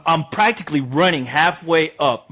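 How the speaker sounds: ordinary talk, nothing marked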